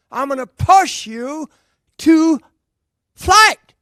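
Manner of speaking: rally your brother for takeoff; hammed-up Wilbur Wright. Playing Wilbur in improv.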